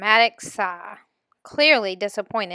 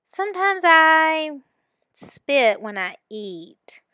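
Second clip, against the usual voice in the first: embarrassed confession; 7 semitones higher, slower than usual. Acted.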